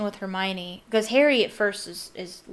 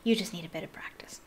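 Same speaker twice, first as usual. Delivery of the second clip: quiet; 5 dB quieter, faster than usual. Acted. Harry reassuring Dobby.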